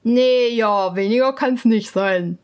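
a lightly voiced stubborn swineherd. Swineherd refuses to bargain, lightly voiced and firm. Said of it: "sagte der Schweinehirt".

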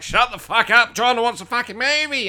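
high, annoyed wife voice; nagging wife. Retold or imitated. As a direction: snap like an irritated wife. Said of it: "the missus is like".

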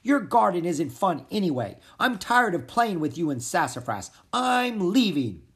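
yelling. Acted. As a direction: shout it out, fed up. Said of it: "he kept on yelling".

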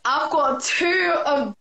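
slow, halting, stumbling delivery; lost for words. Real, not acted. Host with two Latinas on her live, lost for words. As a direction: grope for words with pauses and restarts. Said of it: "I'm lost with words".

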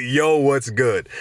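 drawn-out sarcastic "Yo, what's good?"; slow mocking quote. Mocking the Democrats' text, slow sarcastic drawl. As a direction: stretch it out to mock the text. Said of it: "Hit me up with".

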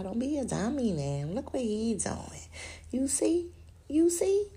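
God scolding a fool, getting high and pressing; urgent plea. Retold or imitated. Voicing God's rebuke, rising.

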